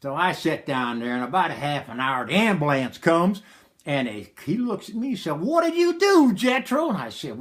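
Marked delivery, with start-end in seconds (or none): 5.4-6.9 high-pitched astonished question; shocked disbelief. Retold or imitated. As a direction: ask it aghast, pitched right up. Ambulance man sees bloody patient.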